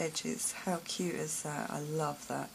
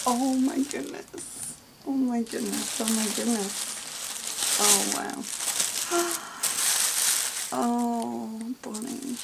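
high, loud gasping awe; gush, overwhelmed, higher and louder; real amazed delight; 7 semitones higher, 7 dB louder, slower than usual. Real, not acted. Crafter opening a gift from a friend, amazed and delighted.

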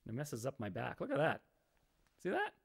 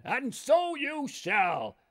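drawn out very slowly, pitched higher; slow, higher magical bear; 10 semitones higher, 7 dB louder, much slower than usual. Acted. Talking bear granting the pie maker's wish, slow and grand.

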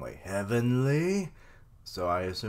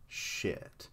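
whispered curse; 9 dB quieter than usual. Real, not acted. Dismay at Luffy hit.

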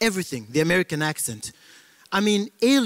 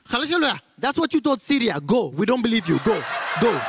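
put-on high, quick, accented scolding; dismissive Arab villager; 4 semitones higher than usual. Arab man sending the aliens away, acted high and dismissive. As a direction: play an indignant Arab man shooing visitors off.

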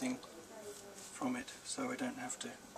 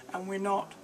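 put-on boy's voice; 8 semitones higher, 6 dB louder than usual. A narrator's reading. Boy voiced.

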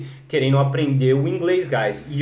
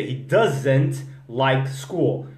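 He doesn't like school. stretched out slowly, doesn't leaning on the z; very slow model sentence; 3 semitones lower, much slower than usual. Shown as a demonstration. Teacher drilling students in a very slow repeat-after-me. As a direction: say it slowly so they can copy. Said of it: "Treina comigo aí".

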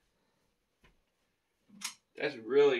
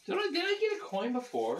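excited anime fan. Real, not acted. Excited unboxing, high pitch.

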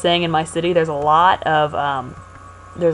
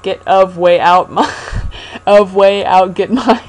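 scrambled words; 4 dB louder, slower than usual. Shown as a demonstration. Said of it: "that's exactly the pun".

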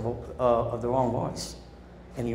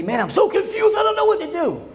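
high, whiny mock confusion; squeaky put-on voice of someone confused; confused whiner; 5 dB louder than usual. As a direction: mimic a lost, confused person. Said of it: "You hear people say".

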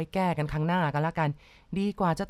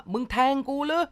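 shocked cry; 8 semitones higher than usual. Acted. Stabbed husband cries out to his wife, stunned. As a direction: cry out in disbelief, much higher. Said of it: "ฝ่ายชายร้องดังขึ้น".

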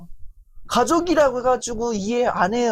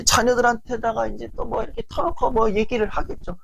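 ordinary talk

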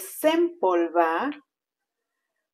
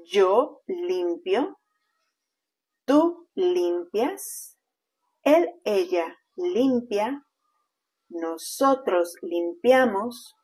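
slow teaching demo. Shown as a demonstration.

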